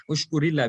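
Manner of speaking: "ushkurillah" with i leading into a light lah; thin, flat lah at the end of "ushkurillah"; flat Allah after zair. Shown as a demonstration. Teacher explains the zair rule, "ushkurillah" with flat ending. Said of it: "there's a zair which is before it".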